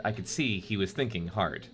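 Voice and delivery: flat robot-like reading. Real, not acted. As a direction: reads like a monotone robot. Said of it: "You read that like a robot".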